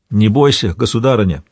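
ordinary delivery, nothing marked

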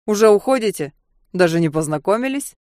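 a hint of drunken slur; tipsy mocking question; drunk with hiccups. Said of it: "Он пьяно икнул".

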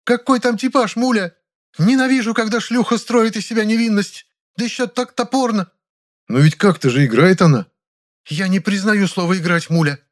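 very high, indignant theatrical tirade; exploding Ranevskaya. A narrator's reading. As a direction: erupt with scorn. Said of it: "опять взорвалась". (взрывной высокий гнев Раневской)

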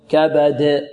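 كبد with a clean د bounce, no vowel colour; neutral qalqalah. Shown as a demonstration. Teacher models the neutral bounce, qalqalah. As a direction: echo the د of كبد without adding a vowel. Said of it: "لا تميل لا إلى فتح".

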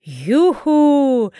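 high, loud whoop of joy; a gleeful shout of delight. A narrator's reading. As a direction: cheer with both arms in the air. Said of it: "воскликнула трактирщица".

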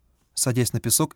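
ordinary delivery, nothing marked

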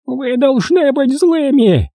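high, slow, creaking crone; creaky crow voice. A narrator's reading. Old crow telling the boys to be angry, high and creaky. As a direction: rasp the command like a creaking door. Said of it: "проскрипела она".

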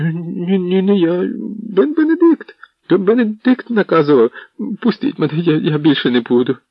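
high, panicked begging; a cowering villain begging in a high, frightened voice; whimpering plea. A narrator's reading. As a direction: beg for mercy in terror. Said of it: "Генріх зарюмсав".

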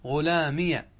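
غلامية said clearly, final يَة with open fatha; example form. Shown as a demonstration. Teacher modelling غلامية with fatha for class. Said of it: "الثاني بقاؤها مفتوحة".

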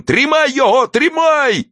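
high-pitched whining yell; shrill spiteful man's cry; cracked, spiteful, whiny. A narrator's reading. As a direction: cry out with malice and a whine. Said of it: "закричал мужской надтреснутый, злобный и плаксивый голос".

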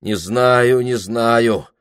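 loud, firmer repeat. Acted. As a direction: raise your voice on it. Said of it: "сказал он громче".

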